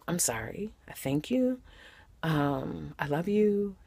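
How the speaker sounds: soft, breathy whispered answer; almost a whisper. Shown as a demonstration. Preacher showing a soft answer to a screamer, whispering. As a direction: take it way down to a whisper. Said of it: "speak with almost a whisper".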